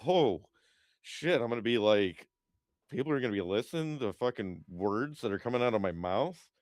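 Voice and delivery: acting out his own pre-show nerves; nervous excited self-quote. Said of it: "I was like".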